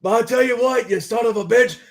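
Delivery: loud Texas tough-guy promo; Steve Austin impression. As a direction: cut a promo as Stone Cold. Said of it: "old Steve Austin".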